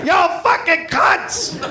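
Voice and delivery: hammed-up crude hello; stretched, high, goofy cheer; mock sailor greeting. Repeating the Frenchman.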